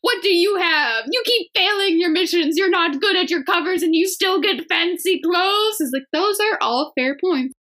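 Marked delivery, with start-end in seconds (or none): 0.0-5.8 villain speech. Pretend. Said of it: "quite the villain speech at the end".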